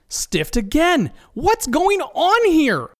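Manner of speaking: high, slow whining lament. Acted. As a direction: wail it in disbelief. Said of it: "laments Steve".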